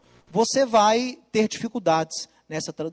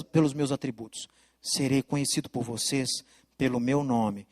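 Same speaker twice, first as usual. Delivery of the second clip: hushed voice of God; 7 semitones lower than usual. Acted. God revealing his name to his people, low and hushed. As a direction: speak low and close, as a secret revelation.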